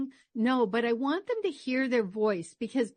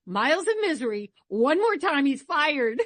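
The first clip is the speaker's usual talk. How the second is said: mock boss threat; 3 semitones higher, 5 dB louder than usual. Program director calls about the traffic reporter, mock stern warning. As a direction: imitate the boss's loud warning, pitched up at the end. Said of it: "the program director called".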